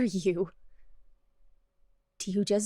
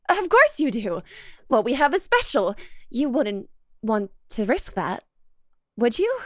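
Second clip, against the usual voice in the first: louder, pressing the point; possessive insistence; 4 dB louder than usual. Acted. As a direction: insist on the bond with force.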